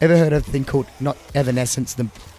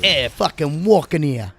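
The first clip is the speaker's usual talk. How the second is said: bad New Jersey accent; 4 semitones higher, slower than usual. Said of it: "worst New Jersey accent ever".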